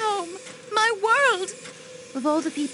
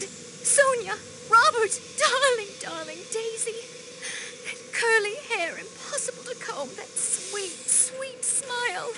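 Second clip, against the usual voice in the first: high, tearful calling of the lost names, fading to a sob; breaking into tears; 5 semitones higher, 3 dB quieter than usual. Acted. Countess remembering her dead niece, tearful and breaking. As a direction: grief spilling over, voice cracking into tears.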